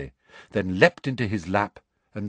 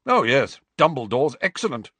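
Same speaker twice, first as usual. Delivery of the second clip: hearty; 6 semitones higher, 5 dB louder than usual. A narrator's reading. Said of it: "said Professor Grubbly Plank heartily".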